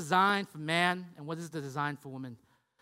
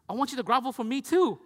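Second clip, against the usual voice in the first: raised, louder comic demand; mock indignant dad; 3 semitones higher, 4 dB louder than usual. Dad jealous of son's grovelling to mom, mock indignant. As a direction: play up a dad's wounded protest.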